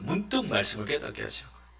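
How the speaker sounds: "문득 말씀을 깨닫게 하시는 거예요" repeated softly and quickly, almost to oneself; soft echo. Shown as a demonstration. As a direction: drop the volume right down and hurry the repeat. Soft echo of previous line. ("깨닫게"를 조용하고 빠르게 혼잣말처럼 되풀이)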